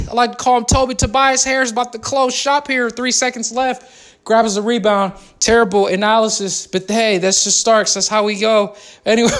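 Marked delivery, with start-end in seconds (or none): 0.1-5.1 mock sports commentary, calling each pass; joking courtside call of a Raptors possession; play-by-play. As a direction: narrate the game like a broadcaster.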